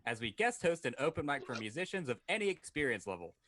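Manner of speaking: upbeat radio ad read. Acted. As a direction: read it like a sponsor spot. Reads a sponsor ad.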